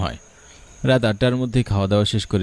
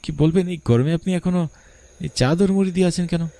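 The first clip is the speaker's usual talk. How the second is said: timid stammered question; 8 semitones higher than usual. Acted. Boy stammers question to stranger.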